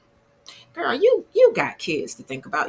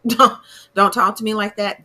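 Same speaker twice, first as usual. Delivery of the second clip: laughing mock sternness; 5 dB louder than usual. Repeating Bianca's line, laughing.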